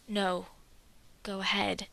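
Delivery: reassuring. A narrator's reading. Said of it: "Dwalin reassures him".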